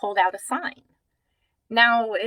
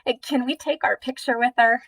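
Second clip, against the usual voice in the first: a hint of a little girl asking, pitched up; lightly voiced child; 3 semitones higher, 4 dB louder than usual. Oldest child asks her mom for a picture, lightly voiced child. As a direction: lightly imitate an eager child's request. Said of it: "looks up at her mom and says".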